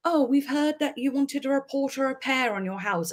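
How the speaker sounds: a hint of call-centre voice; imitated cold caller. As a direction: mimic a caller's scripted politeness. Acting out the caller.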